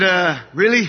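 high, laughing really with a rising tune; laughing disbelief. Retold or imitated. Hearing his dad praise his brother, laughing disbelief. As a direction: laugh it out, incredulous.

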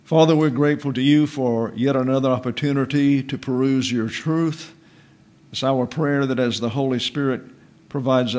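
a solemn opening prayer to the Father. Acted. Pastor opening a Bible class in prayer, solemn and reverent.

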